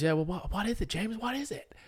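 high, puzzled dad voice; impression of dad. Boyfriend imitating girlfriend's dad asking what it is, high. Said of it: "that's more your dad".

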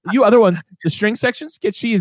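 high mock villainess, dramatic; villain speech. Retelling a movie villain's speech to the mice in a high mock voice. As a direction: ham up the evil villainess's grand speech. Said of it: "she goes".

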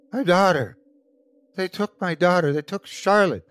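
high, anguished cry. A narrator's reading. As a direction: wail it in desperation. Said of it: "cried the sickly man".

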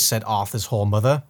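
ordinary talk, nothing marked

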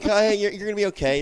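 imitated pep talk to a son; reassuring dad. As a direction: cheer up a complaining kid.

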